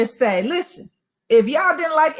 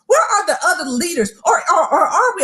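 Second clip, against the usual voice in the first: rising, excited rush of words; getting excited; 4 semitones higher than usual. Real, not acted. Preacher to listeners, getting carried away with excitement. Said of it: "I'm getting excited".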